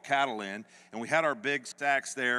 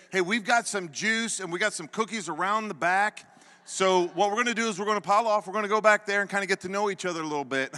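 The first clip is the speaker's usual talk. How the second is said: nice, coaxing voice; 7 semitones higher, 5 dB louder, faster than usual. Retold or imitated. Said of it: "they were nice to us".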